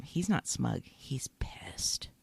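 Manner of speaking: low, near-whispered intensity; very soft, breath-heavy and low; hushed intensity. Real, not acted. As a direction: drop to a grave whisper. Dramatic retelling of the killing.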